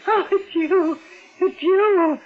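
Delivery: shaky laughs of relief; hysterical relief. Acted. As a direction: laugh and cry at once, relieved. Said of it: "I'm hysterical".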